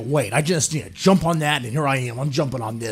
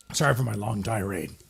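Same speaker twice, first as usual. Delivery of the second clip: ordinary delivery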